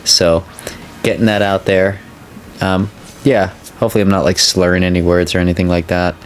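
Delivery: sore mouth, careful speech; after wisdom teeth. Real, not acted. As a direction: talk gently around a sore jaw. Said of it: "I got my wisdom teeth out".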